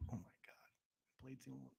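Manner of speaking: whisper. Real, not acted. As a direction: whisper it in disbelief. Stunned by the Blade idea.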